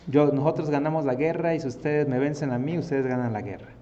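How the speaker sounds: hammed-up battlefield taunt that eases toward the end; grito retador. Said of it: "empezaba a gritar". (desafío a gritos, actuado)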